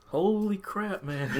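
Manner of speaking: high, drawn-out holy crap; retold amazement. Coworker learning of the death, stunned.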